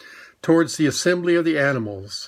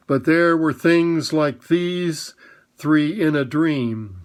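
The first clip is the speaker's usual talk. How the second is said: very slowly. Acted. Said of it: "said Strawberry very slowly".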